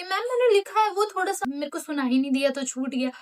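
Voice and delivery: mock-innocent excuse; excuse-making classmate. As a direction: plead innocence like a caught kid. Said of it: "बहाने बनाने लगी".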